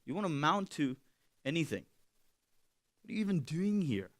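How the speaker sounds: soft, sneering whisper of doubt; quiet voice of doubt. Acted. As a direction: murmur it like doubt in the ear. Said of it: "This is what doubt says to us".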